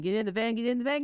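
rising to a high urgent yell; shouting. Acted. Bella in the driver's seat urging her friends in, rising high and urgent. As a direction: hurry them into the van.

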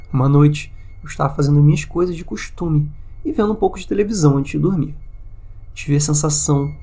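deliberate storytelling, paused phrase by phrase; horror story narration. A narrator's reading. Host reading a Reddit haunting story to listeners, measured narration. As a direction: read out a scary tale, measured and deliberate.

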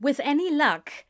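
ordinary delivery, nothing marked

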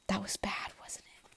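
imitating boyfriend in a whisper. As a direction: breathe it out like a teasing secret. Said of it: "he'll be like".

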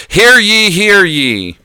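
town crier. Acted. Announcing to the town crowd.

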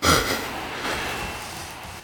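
soft, voiceless breathy laugh; long quiet puff of amusement; quiet breath. Real, not acted. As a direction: let out a soft, airy laugh. Stuck for what to say.

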